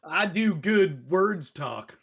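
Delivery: slow, deliberate broken grammar; mock-simple speech. Host teased about grammar, slow mock-simple reply. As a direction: space out each word for the joke.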